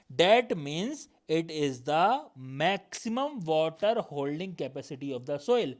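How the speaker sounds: slow, deliberate textbook reading; measured classroom dictation, stretched words; definition read-out. Acted. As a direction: read it out word by word for note-takers. Reads definition out slowly.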